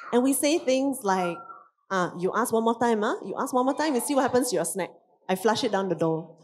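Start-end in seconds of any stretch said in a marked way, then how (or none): 1.9-6.4 parent threatening over a snack; mock harsh threat. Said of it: "we basically start yelling at our kid".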